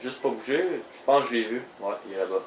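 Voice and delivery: beaucoup plus doux, presque chuchoté; voix basse. Real, not acted. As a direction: se faire discret en jeu. (caché, il parle tout bas)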